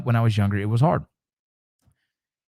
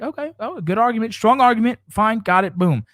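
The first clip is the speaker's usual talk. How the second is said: mock dismissive; 8 semitones higher than usual. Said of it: "And you're like".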